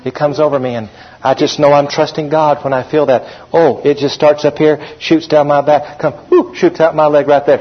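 lightly voiced, hushed gush; mock gushing believer. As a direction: send up someone swooning over feelings. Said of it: "Have you ever heard people talk like that?".

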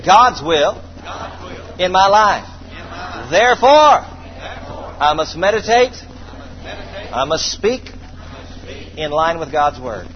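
like you mean it. Shown as a demonstration. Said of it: "say it like you mean it".

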